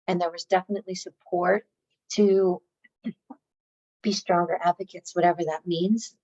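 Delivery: hoarse, worn-out voice; losing voice. Real, not acted. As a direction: talk through a tired, failing voice. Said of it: "I'm losing my voice".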